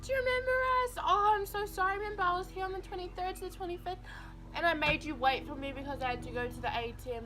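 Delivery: high, loud, eager mock voice; eager passenger. Family reminding the bus driver about them, high eager voice. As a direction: pester the driver to remember you. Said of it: "and they're like".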